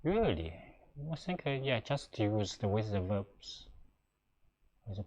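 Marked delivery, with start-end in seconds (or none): 0.0-0.5 really said higher and louder, falling; stressed really. Shown as a demonstration. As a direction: land firmly on really. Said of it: "if you say the 也really with".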